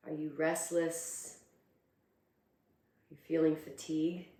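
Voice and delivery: calm, unhurried meditation guidance with long pauses; guided meditation. Acted. Teacher guiding students to close their eyes and breathe, calm meditation voice. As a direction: ease them inward, leaving space between phrases.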